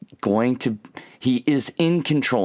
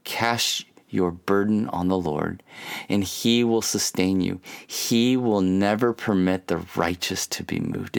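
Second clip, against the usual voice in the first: scripture reading; 2 semitones lower than usual. Shown as a demonstration. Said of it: "and it says this".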